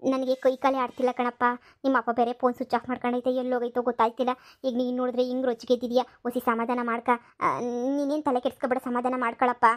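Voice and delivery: calm the angry son down gently; softly begging her son to settle; soothing. Acted. Mother calming angry son.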